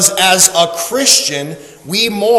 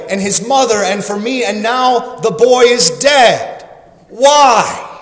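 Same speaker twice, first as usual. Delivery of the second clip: higher, insistent anguished plea; crying out to God; 4 semitones higher, 4 dB louder than usual. Acted. Elijah crying out to God over the dead boy, anguished. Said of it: "he cries out to God".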